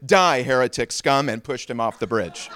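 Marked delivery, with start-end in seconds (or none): 0.1-1.3 loud burst of condemnation, pitch barely raised; mock shout. First man to the heretic on the bridge, loud mock shout. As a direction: bellow it as a joke punchline. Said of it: "the first man shouted".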